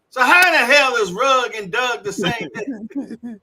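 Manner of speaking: exasperated storytelling voice; retold exasperation. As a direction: argue it out in mock disbelief. Retold argument over confusing pronunciation.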